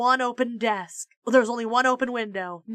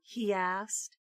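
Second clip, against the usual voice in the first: ordinary delivery, nothing marked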